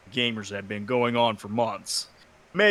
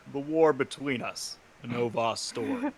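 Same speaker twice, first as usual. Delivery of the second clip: narrator voice; 4 dB quieter than usual. Acted. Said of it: "another narrator voice".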